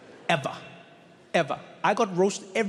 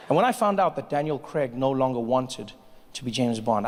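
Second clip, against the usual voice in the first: normal talking voice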